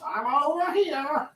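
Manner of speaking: high, drawn-out playful call; hiding piece's voice. Pretend. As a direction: answer slowly in a high toy voice.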